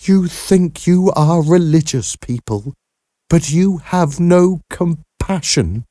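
high, bitter reproach. A narrator's reading. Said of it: "hear the bitterness in Harriet's voice".

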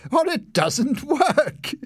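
high, slow, mocking older brother; teasing big brother. A narrator's reading. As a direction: spell it out with a laughing sneer.

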